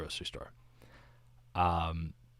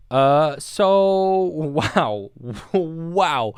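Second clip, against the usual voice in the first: laughing at himself; 8 semitones higher, 8 dB louder, much slower than usual. Real, not acted. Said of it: "That is something I actually just said".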